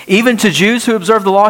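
rhetorical objection, fast and rising in disbelief; incredulous question. Retold or imitated. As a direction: voice the doubter's surprised challenge, fast. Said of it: "Wait a minute".

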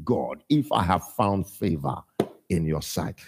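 low, hushed prayer voice, dropping to a whisper on "in your sight"; a hint of prayerful hush. Pastor models the prayer to God in a low, hushed plea.

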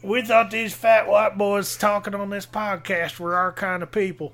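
lightly put-on Southern redneck accent. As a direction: play a let-down follower with a Southern twang. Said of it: "us talking like this".

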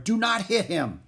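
high, urgent order; shouted command. A narrator's reading. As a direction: cry out to protect the horse. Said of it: "shouted Alexander again, rushing forward".

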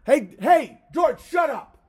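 calling out to George the dog, loud; yelling at the dog. Real, not acted. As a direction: snap the dog's name and the order.

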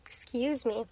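a soft breathy whisper; whispered apology. Real, not acted. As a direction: whisper it as a sheepish aside. Apologising after calling men gross.

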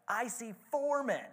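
high, excited shout, loudest on unbound. A narrator's reading. King shouting about four men in the fire, amazed. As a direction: cry out in wonder at what he sees. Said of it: "Nebuchadnezzar shouted".

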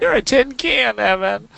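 high, sing-song teasing tease. Real, not acted. Teasing co-host.

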